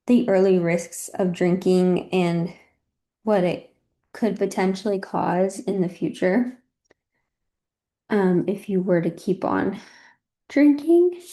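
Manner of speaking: out of breath; breathless while talking; heavily pregnant. Real, not acted. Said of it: "if I sound very out of breath".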